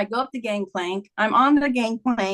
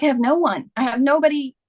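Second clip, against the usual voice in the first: retold desolation; 4 semitones higher than usual. Recalls being alone after husband's death.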